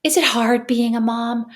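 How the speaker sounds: lightly voiced child, slow and drawn out; hint of an earnest kid asking Mom; slow, deliberate imitation of a child; nine-year-old child. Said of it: "what my nine-year-old said to me".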